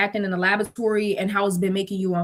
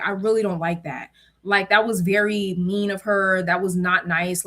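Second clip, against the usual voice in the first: serious; 3 semitones lower than usual. Retold or imitated. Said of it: "looking at me in all seriousness".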